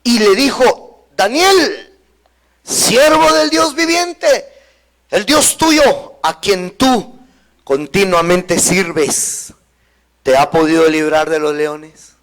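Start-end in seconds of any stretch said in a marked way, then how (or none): 1.2-12.1 a king calling sadly to Daniel in the lions' pit. Acted. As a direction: call out slowly, full of sorrow. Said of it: "se acercó al foso con voz triste".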